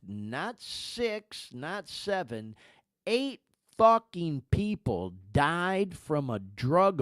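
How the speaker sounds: slow the count, then land hard on the eight; dramatic countdown. Real, not acted. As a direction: build the list to a heavy, angry payoff. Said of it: "I'm doing this for effect".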